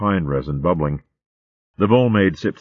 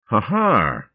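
relieved laugh; 5 semitones higher than usual. Acted. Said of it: "she laughed aloud with relief".

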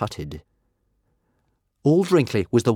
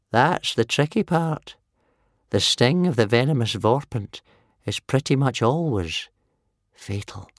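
put-on croaking old man; 5 semitones higher than usual. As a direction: croak it gloomily. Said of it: "he croaked".

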